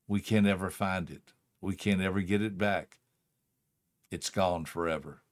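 dad quietly teaching his daughter; tender lesson. Retold or imitated. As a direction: fade gently as you teach.

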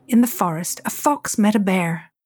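ordinary delivery

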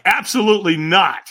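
comic point-blank no; flat-out refusal. Retold or imitated. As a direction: shut the idea down firmly. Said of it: "And I said it about that way".

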